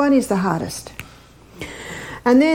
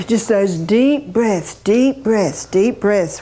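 slow calming breath cue; slower than usual. Shown as a demonstration. Coaching a panicked client, slow and soothing. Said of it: "demonstrating slow deep breathing".

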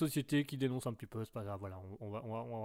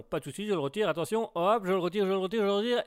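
mock God voice with echo; God's echo just before it is switched off; 4 semitones higher, 4 dB louder, faster than usual. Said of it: "il n'y a plus". (voix de Dieu avec écho)

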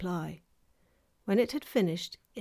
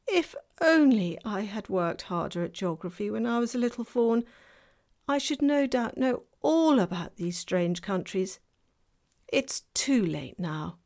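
melancholy; 2 semitones higher, 4 dB louder than usual. Acted. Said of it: "in a rather melancholy voice".

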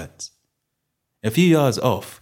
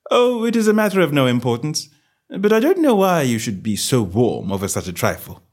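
airy high start, easing down; a touch of feigned indifference; lightly voiced offhand detective; 6 semitones higher, 4 dB louder than usual. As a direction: brush it off as a gentleman would.

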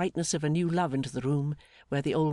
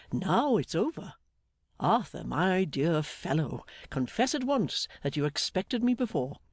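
lightly voiced hearty older friend, slow and lilting; a touch of jolly warmth, drawn out; jolly Mister Meagles; 2 semitones higher than usual. Voices jolly Meagles after emotional greeting.

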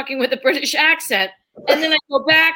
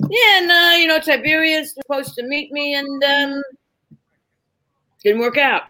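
Dustin Hoffman improvising; 2 semitones higher than usual. Retold or imitated. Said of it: "Dustin Hoffman doing Shakespeare".

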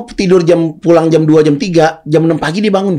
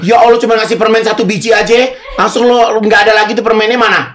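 complaining; 6 semitones higher than usual. Real, not acted. Complaining about one candy.

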